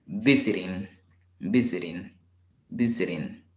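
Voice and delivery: visiting stressed on VI; stress on first syllable. Shown as a demonstration. Teacher repeating the word for learners, first-syllable stress. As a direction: hit VI, let siting fall away. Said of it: "In the first syllable".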